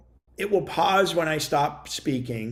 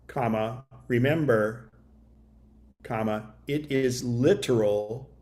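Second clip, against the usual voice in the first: dictation voice; 3 semitones lower, 3 dB quieter than usual. Shown as a demonstration. Showing viewers how to dictate to the phone, measured dictation voice. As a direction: read it out word by word for the phone to type. Dictates demo text again.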